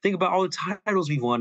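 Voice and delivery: woo him back like a jilted ex, half-joking; a hint of a sulky ex begging Paul to come home; coaxing ex-girlfriend. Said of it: "ex-girlfriend type thing".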